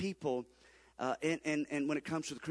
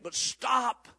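preaching shout; 6 semitones higher, 4 dB louder than usual. Real, not acted. Preacher exhorting congregation.

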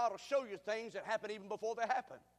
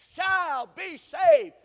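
even louder, higher, very slow; louder call; 9 semitones higher, 16 dB louder, much slower than usual. Shown as a demonstration. Preacher urging the church to say it louder. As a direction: push them to answer harder. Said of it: "Say it like you mean it".

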